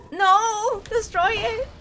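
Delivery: high shrieked commands; frantic scream. Real, not acted. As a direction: scream it in panic.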